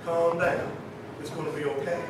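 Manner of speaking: very soft, low reassurance; still small voice. Acted. Inner voice to anxious believers, still small voice. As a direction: hush it right down, as a gentle inner voice. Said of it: "the still small voice that says".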